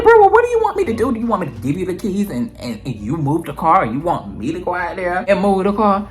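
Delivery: very high, fast and loud; high fast panicked questions; frantic offer. Retold or imitated. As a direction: rush it out in panic. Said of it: "I'm like".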